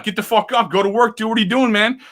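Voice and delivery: lightly voiced stern dad giving orders; yelling dad. Dad to homeless guys on the sidewalk, a mild mock yell. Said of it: "yell at 'em like a dad".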